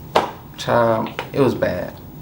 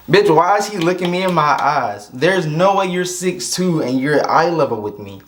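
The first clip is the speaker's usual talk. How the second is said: higher, stunned disbelief; a stunned inner voice, pitched up; incredulous; 4 semitones higher than usual. Retold or imitated. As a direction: react to the short date in a high shocked voice. Shocked at short date.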